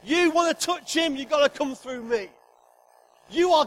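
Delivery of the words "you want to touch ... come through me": warning. Acted. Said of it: "He says to every opposition".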